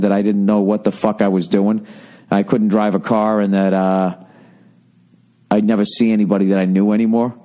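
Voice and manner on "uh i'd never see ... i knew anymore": ordinary talk, nothing marked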